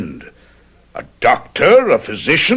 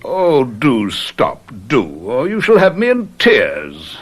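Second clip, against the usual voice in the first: sarcastic mockery. Villain mocks the friend's speech.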